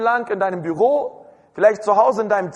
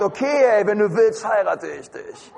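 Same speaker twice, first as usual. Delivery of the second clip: a touch of couldn't-care-less, sagging at the end; indifferent bride. Acted. Scruffy bride grudgingly agreeing to marry the groom, indifferent. Acts out a slovenly, unwilling bride.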